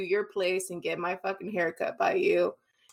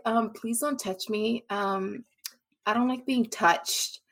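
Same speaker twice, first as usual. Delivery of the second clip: softer, slow, mock bitchy tone; 6 dB quieter, slower than usual. Quoting a girl at the bar who refused his arm, mock bitchy and softer. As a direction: imitate a girl brushing you off coldly. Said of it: "But, like, in a bitchy way".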